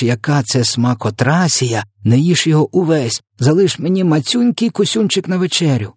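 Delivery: high-pitched, pleading character voice; coaxing giant. A narrator's reading. Giant coaxes the other to taste.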